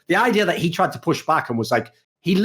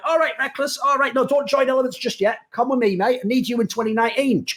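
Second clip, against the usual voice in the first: mock pep talk; 8 semitones higher than usual. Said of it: "I'd go".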